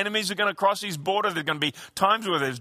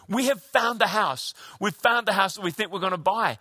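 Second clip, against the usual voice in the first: retold excitement. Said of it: "they were all excited".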